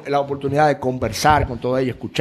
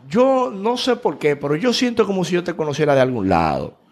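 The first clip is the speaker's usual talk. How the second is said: cita del hippie; 4 semitones higher than usual. Retold or imitated. Cuenta lo que dijo el hippie.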